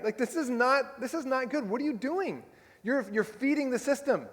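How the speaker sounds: high, loud, incredulous protest; crowd's outrage. Retold or imitated. Preacher acting the crowd scolding Jesus, high outraged protest. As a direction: play the outraged townsfolk, voice jumping up. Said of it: "They're like".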